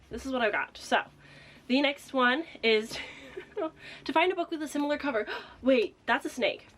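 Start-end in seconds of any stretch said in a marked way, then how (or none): 5.4-6.7 surprised gasp. Real, not acted. Spots a snake on cover.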